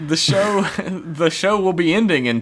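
slow, mock loudspeaker announcement; announcer voice. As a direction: drawl it like a PA system.

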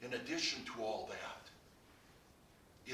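hushed repeat. Acted. Preacher repeating the point to the congregation, hushed and slow. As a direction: drop to a slow hush on addition.

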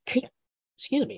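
squeaky hiccup on the words. Real, not acted. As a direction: excuse a hiccup mid-sentence. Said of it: "I'm hiccuping".

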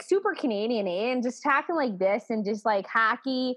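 playful broad Canadian demo; super Canadian accent. Shown as a demonstration. Retelling retreat accent games, broad Canadian accent. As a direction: lay on the Canadian vowels. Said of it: "the Canadian accent and I was, like, talking".

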